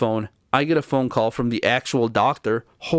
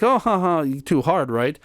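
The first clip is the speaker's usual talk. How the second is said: mocking laugh; 4 semitones higher than usual. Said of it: "And she's like".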